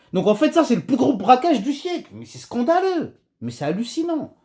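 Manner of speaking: heated indignation, pitch lifting; worked up, annoyed. Real, not acted. Vlogger denouncing the robbery of the century, heated indignation. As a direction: protest like you can't believe it. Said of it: "je suis un petit peu chaud, là, énervé".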